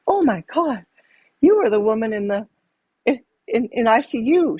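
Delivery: imitated overcome, high-pitched recognition; tearing up. Nurse recognizing her old patient, imitated tearful high voice. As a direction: retell it high, as if welling up on recognizing someone. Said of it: "she starts to tear up".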